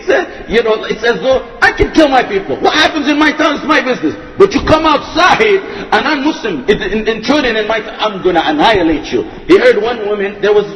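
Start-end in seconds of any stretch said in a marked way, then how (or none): 1.6-9.2 mildly voiced warning from a ruler who guards his town; defiant ruler. Preacher voicing Hajjaj warning outsiders, lightly acted defiance.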